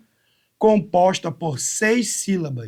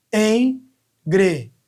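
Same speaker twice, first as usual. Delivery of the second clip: slow syllable count; 2 semitones higher, 4 dB louder, much slower than usual. Shown as a demonstration. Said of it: "Uma, duas".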